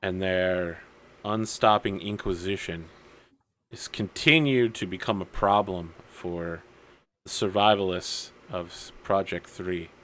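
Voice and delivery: lightly acted brooding hero, measured pauses; deliberate, grave speech building to an oath; solemn vow monologue. Hero monologuing head down over his sword, solemn resolve.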